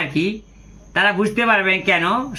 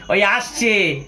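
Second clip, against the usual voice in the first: laughing; much slower than usual. Retold or imitated. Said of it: "আমাকে বলছে".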